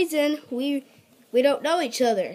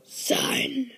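whispered; 4 semitones higher than usual. Acted. Dramatic whispered reply.

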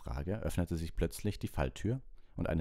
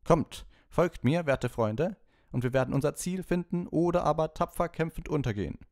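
rally your companions like a theatrical knight; a knight's booming battle cry, pitched high; 11 semitones higher, 6 dB louder than usual. Acted. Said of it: "rappelte er sich hoch und rief".

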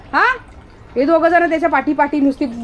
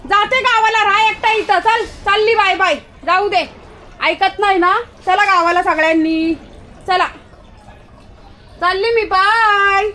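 mock leaving; 7 semitones higher, 3 dB louder than usual. Pretends to leave the dog.

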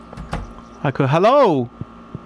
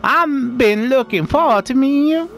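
villager voice; 6 semitones higher than usual. Acted. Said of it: "I gotta remember the voices".

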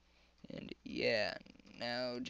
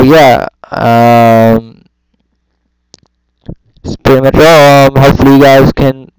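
airport PA announcement; lightly played announcer over the PA; flat echoey pa page. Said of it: "my airport voice ain't the best".

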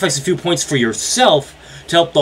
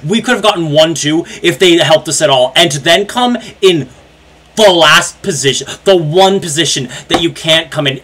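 angry rant; 4 semitones higher, 4 dB louder than usual. Real, not acted. Ranting in disbelief.

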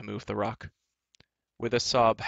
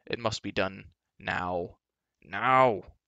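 sudden outburst; slower than usual. A narrator's reading. Giant snaps, decides.

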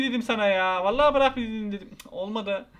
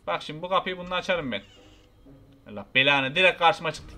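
ordinary talk

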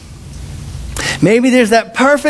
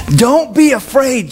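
higher, slowed plea; angel urging; 4 semitones higher, slower than usual. Retold or imitated. Angel presses Joseph again, a bit higher and slow. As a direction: lift it a little, pleading. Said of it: "And then angel".

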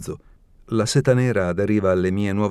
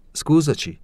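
bright, higher mock-polite announcement; announcing; 7 semitones higher than usual. A narrator's reading. Genia barging into Zoya's room, mock-polite announcement. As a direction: breeze in with a higher Scusaci. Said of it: "annunciò Genia".

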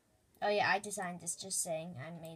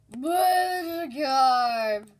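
calling out; 7 dB louder, much slower than usual. Acted. Character suddenly alive, calling out.

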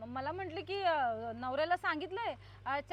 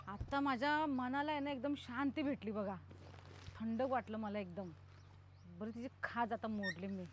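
lower, settled satisfaction; relieved gloating; 5 semitones lower than usual. Acted. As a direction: savour the peace after the fight. Gloats alone after tying her up.

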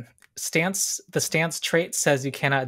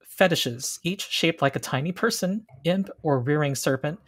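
scene narration. Acted. GM describes the witch's glade.

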